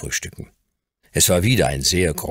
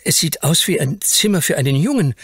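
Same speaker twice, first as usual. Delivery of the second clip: put-on high, breathless child blurting out; boy amazed by his new playroom, high and stammering; excited stammer; 10 semitones higher than usual. A narrator's reading. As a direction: stumble over words in amazement. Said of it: "stieß er schließlich aufgeregt hervor".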